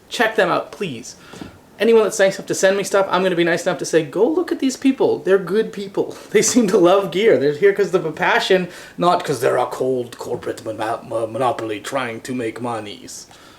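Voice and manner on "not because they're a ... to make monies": low, evil villain man voice. Thanking the people who send him gear, in an evil man voice. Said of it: "It's my evil man voice today".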